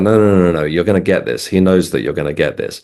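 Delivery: mildly insistent retelling of the medium; lightly imitated insistence, firm on the noes. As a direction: brush off doubt with quick repeated noes. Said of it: "she was really insistent".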